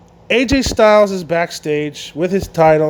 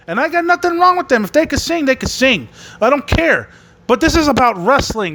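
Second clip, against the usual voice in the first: a sudden burst of heated protest; worked-up rant; 4 semitones higher than usual. Real, not acted. A wrestling fan ranting about a karaoke segment, heated and fast. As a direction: pitch jumps up, words come fast.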